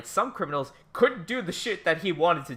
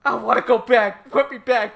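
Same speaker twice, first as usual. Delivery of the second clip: higher, louder, fake-sobbing plea; mock crying; 8 semitones higher, 9 dB louder than usual. Begging to go back to Japan, hammed-up sobbing. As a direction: whine like a homesick child, hammed up.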